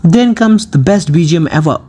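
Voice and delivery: slow, drawn-out hype; slow hype announcement. Acted. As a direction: announce it slowly like a trailer. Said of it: "hyped announcement".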